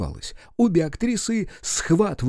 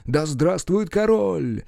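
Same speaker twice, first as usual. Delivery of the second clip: crowd's roar; 5 semitones higher, slower than usual. Acted. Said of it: "Рёв".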